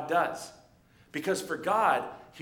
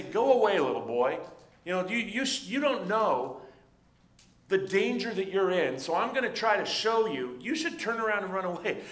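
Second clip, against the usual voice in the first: high, mocking, teasing the little boy; taunting giant; 3 semitones higher, 4 dB louder than usual. Giant taunting the shepherd boy, high and mocking. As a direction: taunt him like a bully to a small kid. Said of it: "Goliath is trying to say".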